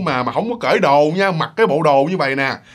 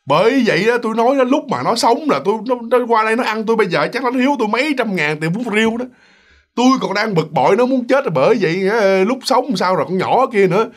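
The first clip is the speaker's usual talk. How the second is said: indignant rant; 4 semitones higher than usual. Retold or imitated. Noodle seller ranting to Mr. Năm, raised indignant voice. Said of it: "thành ra là bà mới nói vậy đó".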